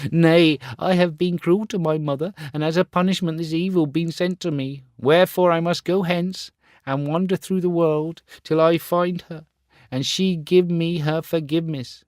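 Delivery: high, loud, remorseful vow; weeping boy swearing to find his mother. Acted. Star Child weeping on the grass, high and remorseful.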